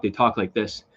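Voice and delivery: imitating a toneless talker, pitch held still; mock monotone. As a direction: drop into a dull, level drone. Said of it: "the monotone, when you hear these guys talk".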